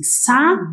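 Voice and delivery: "sabão" with the ão through the nose; nasal ão. Shown as a demonstration. Teacher showing how the tilde sounds, nasal ending on "sabão". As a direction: say "sabão", letting the last syllable hum nasally. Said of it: "A gente fala meio que com o nariz".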